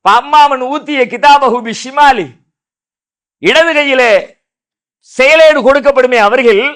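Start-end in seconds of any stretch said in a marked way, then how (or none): 0.0-2.3 slow Quranic recitation. Acted. Quran verse recited in sermon.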